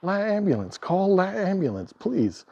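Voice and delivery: high mock insistent correcting voice; hammed-up pedant demanding the article; mock pedantic teacher. Scene: a pedant stops an emergency to correct the article, high and mock insistent. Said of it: "say it".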